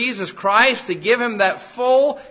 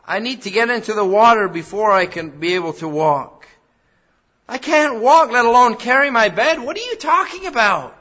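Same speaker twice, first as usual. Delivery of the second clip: higher, louder, exasperated disbelief; mock protest; 4 semitones higher, 7 dB louder than usual. Lame man imagined arguing with Jesus, loud exasperated disbelief. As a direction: argue back, fed up and baffled. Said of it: "He didn't say".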